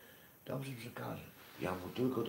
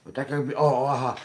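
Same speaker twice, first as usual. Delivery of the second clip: excited; 5 semitones higher, 12 dB louder than usual. Real, not acted. Excited recalling the message.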